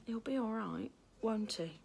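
soft, worried question; anxious boy. Acted. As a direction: ask quietly, afraid for him. Worried brother asks softly.

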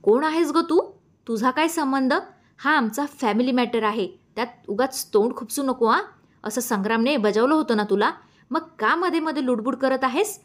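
rising indignant rebuke; angry confrontation. Acted. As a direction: tell her off, getting in her face. Lata lunges at Meera.

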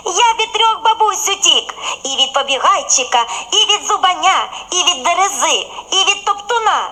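high, giggling boast; bun laughing. A narrator's reading. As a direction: rattle off the list through laughter. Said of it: "сміється веселун". (колобок сміючись перелічує)

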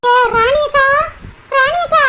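calling her name loudly across the yard. Acted. Friend calling out to sulking Rani, loud call. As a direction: call out to get her to turn around.

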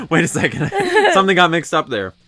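high, loud mock British accent slipping; puzzled, in a muddled fake accent; accent gone astray. Accent imitator catching own mix-up, muddled fake accent. Acted reaction to failed accent.

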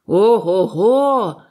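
big, drawn-out hearty shout; booming exclamation. A narrator's reading. Cook greets the new cabin boy with a loud hearty shout. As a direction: bellow it at full voice like a jolly old sailor. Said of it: "на весь голос проказав він".

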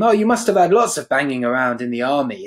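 patronising. Retold or imitated. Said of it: "as if it was almost like a childish game".

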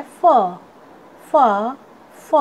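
फ as a lone "fuh", spaced out; phonic letter sound. Shown as a demonstration. Teacher showing students the sound of F, phonic letter sound. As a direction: sound out फ as F starts "fan". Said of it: "एफ का sound होता है".

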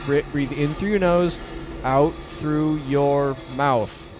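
slow, drawn-out calming instruction; steadying his nerves aloud; self-calming breath. Real, not acted. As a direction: talk yourself down, stretching the words. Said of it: "Breathing techniques".

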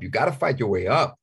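hammed-up tough-guy push; leaning into the hard-nosed advice; mock tough pep talk. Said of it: "that's something he would say".

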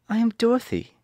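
put-on high little girl voice; worried girl asking. A narrator's reading. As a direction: plead as young Dorothy. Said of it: "answered the little girl".

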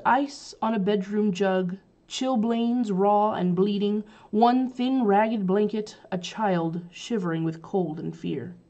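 put-on a haunted woman recalling a bleak childhood, slow and grim; slow grim recital. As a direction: list each cold image slowly, heavy with memory. Reads Casewell's grim memory.

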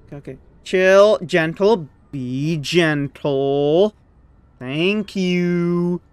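real tense softness; hushed pleading. Real, not acted. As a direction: ease it gently like defusing a bomb. Delicate move, holding breath.

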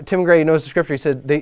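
usual speaking voice

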